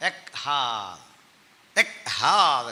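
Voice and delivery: "എക്ഹാദ്" broken into ek-haad; "എക്ഹാദ്" slow, with a hard hit on haad; punched pronunciation. Shown as a demonstration. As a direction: punch the breathy second syllable of "എക്ഹാദ്". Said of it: "ഒരു ഇടിപ്പ് കൂടും".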